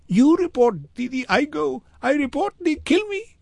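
put-on very high, frightened child's voice; squeaky-high, urgent little-boy refusal; panicked boy in broken English. A narrator's reading. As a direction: protest in short, desperate bursts. Boy panics about reporting.

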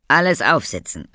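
rally everyone onto the sleds; calling out. A narrator's reading. Papa calling the children onto the sleds, loudly. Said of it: "rief er".

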